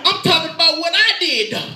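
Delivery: loud, high retold objection; imitated yell. Panicking manager insists on his mistakes, imitated yell. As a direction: insist loudly as the upset man. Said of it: "he kinda yelled at me".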